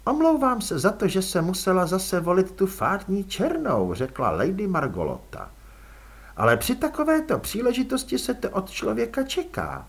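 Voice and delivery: polite, cool vampire aristocrat offering a ride; elegant vampire lady. Acted. Margolota apologizes for black dress.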